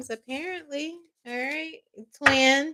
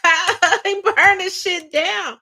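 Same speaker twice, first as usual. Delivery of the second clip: daddy's threat; 7 semitones higher, much slower than usual. Retold or imitated. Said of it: "Daddy said".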